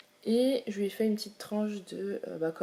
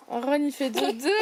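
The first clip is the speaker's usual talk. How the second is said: playful sing-song; 4 semitones higher than usual. Shown as a demonstration.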